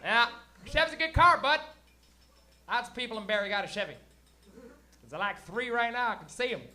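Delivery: lightly exaggerated rural Ontario hick accent; Canadian hick accent. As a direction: chat like a small-town Canadian gas-station guy. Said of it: "Why is he talking like that?".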